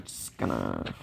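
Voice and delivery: words sinking into a mumble; trailing off. Real, not acted. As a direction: let it die away to almost nothing. Stalling phrase trails away.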